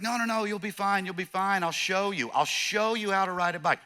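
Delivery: breezy reassurance. Acted. Uncle brushing off nephew's worries.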